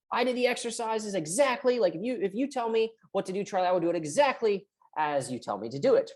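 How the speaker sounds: lightly voiced, earnest client swearing obedience; eager perfectionist client. Voicing a client under pressure.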